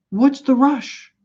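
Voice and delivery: slow, high, easygoing drawl as the friend; laid-back friend. Retold or imitated. Friend teasing Mike for rushing, slow easy drawl. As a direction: let it hang, no hurry at all.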